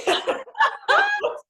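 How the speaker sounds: squealing laugh, sudden and loud; high burst of laughter. Real, not acted.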